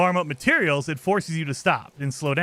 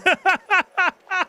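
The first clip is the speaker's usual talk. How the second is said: high, loud burst of laughter; real cackling laugh that runs on; 14 semitones higher, 5 dB louder than usual. Real, not acted. Laughs at their own situation.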